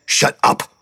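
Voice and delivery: harsh, breathy bark; angry snap. A narrator's reading. Hogan snapping at the biting kid. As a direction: shut him down hard.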